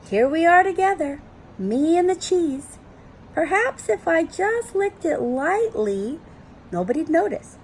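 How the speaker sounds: tempted dog. Acted.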